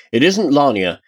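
a touch of alarmed insistence; understated thundering. Acted. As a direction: press the accusation with restrained anger. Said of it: "Tarsia thundered".

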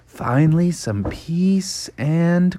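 soft, slow settling-down sigh; contented relief. Acted. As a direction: sink cosily into it, slowly. Bear settling down to sleep.

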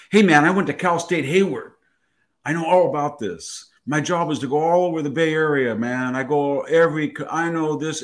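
a hint of mock Valley Girl; Valley Girl accent. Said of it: "got into a Valley Girl accent".

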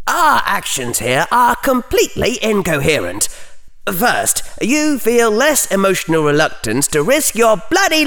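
Harry's internal consistency checker objects; inner voice. Acted. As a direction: scold yourself.

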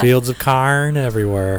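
carn for corn, broad Midwestern vowel; Midwestern accent. Retold or imitated. Host jokes about Midwestern corn in accent. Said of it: "That's my Midwestern accent".

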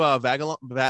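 stumbling over "Vagalon-, Va-" into babbled syllables; real tongue-tied garble on "Vagalon-"; tongue-tied stumble. Real, not acted. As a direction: trip on "Va-" and let it dissolve into gibberish. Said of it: "I sound like Ray".

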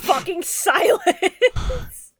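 very slow, loud, drawn-out words; dramatic slow pronouncement. Acted. Cohost mocking the villain's speech, slowly and loudly. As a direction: intone it like a solemn verdict. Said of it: "mocking dramatic pronouncement".

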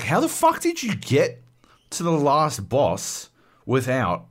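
very high, then slowing in disbelief; amazed disbelief. Retold or imitated. Brother asking how he reached the last boss, high and astonished.

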